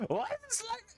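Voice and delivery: high, sing-song mock-Swedish voice; Swedish Chef. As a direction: talk high through puffed-up lips, mock Swedish. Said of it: "Swedish Chef is gonna get me in trouble".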